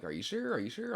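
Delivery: lightly voiced pleading girl; doubtful girlfriend.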